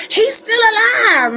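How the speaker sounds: high, drawn-out alarmed yell; frantic warning shout. Acted. Horror-film survivor warning everybody, frantic shout. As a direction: shout it like the doomsayer nobody believes. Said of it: "somebody who's trying to warn everybody".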